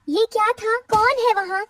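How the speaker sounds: mildly flustered bird character; startled awake. Acted. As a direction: call out as if jolted from sleep. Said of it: "रानो हड़बड़ाकर उठती है".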